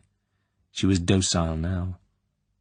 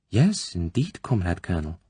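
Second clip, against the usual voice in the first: put-on timid young woman. Tatiana answering the colonel cautiously, timidly. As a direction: answer carefully, unsure what she wants.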